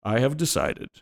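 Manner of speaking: a hint of a melancholy hermit. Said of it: "let me do my hermit voice".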